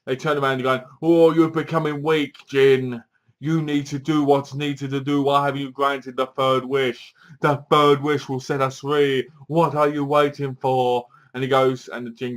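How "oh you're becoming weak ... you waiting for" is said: scolding council voice. Retold or imitated. Voicing the Jin council.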